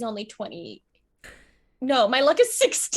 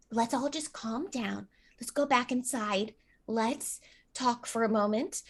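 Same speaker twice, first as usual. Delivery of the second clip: soothing; 8 dB quieter than usual. Acted. Peterson soothes the upset shopkeeper.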